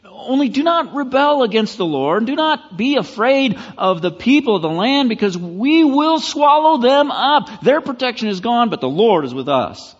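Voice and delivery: high, loud, ringing proclamation of trust; a preacher voicing Joshua in full, confident voice; bold faith declaration. Caleb and Joshua answer the grumbling nation, high and loud with conviction. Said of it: "They said".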